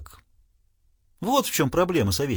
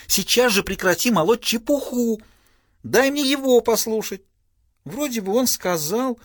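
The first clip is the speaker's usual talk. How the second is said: bossy daughter; 8 semitones higher than usual. Acted. Daughter scolds father.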